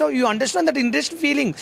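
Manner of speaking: slow, drawn-out mock broken English rant; a slow mock English speech, imitating grandpa. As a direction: parody the old man's slow broken English. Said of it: "నువ్వు కాలపాష కావచ్చు".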